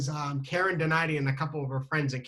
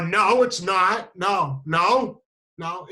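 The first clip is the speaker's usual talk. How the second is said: louder, drawn-out protest; embarrassed denial; 5 dB louder, much slower than usual. Retold or imitated. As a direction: deny it loudly, embarrassed. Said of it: "I'd been embarrassed".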